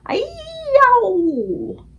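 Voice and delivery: high, loud howl of pain; roaring. A narrator's reading. Giant roaring in his nightmare, loud high howl. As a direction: let out a huge yelping roar. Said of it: "roared the flesh lump eater".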